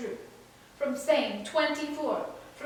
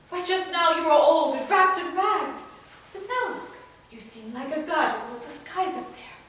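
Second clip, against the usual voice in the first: mildly agitated, disbelieving outburst; wild disbelief; 4 dB louder than usual. Acted. Son rejecting the man claiming to be his father, disbelieving. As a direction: refuse to believe it, with bursts of force. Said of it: "Telemachus broke out, wild with disbelief".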